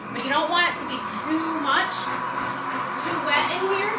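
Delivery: talking over blender noise. Real, not acted. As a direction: raise voice over the machine. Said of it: "Sorry for the blender".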